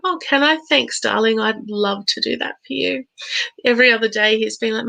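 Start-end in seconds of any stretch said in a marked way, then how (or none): 0.0-3.0 mock surprise. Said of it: "I'm like".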